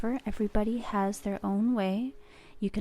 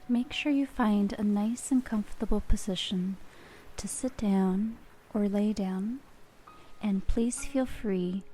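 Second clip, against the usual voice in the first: guided relaxation. Acted. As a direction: ease the listener gently into calm. Leads a relaxation exercise.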